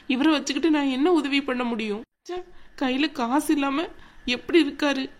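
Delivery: a touch of crying in an aggrieved mutter to oneself; tearful complaint. Acted. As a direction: grumble to yourself through mild tears. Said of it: "ஏன் ஆனந்தி அழுகுற?".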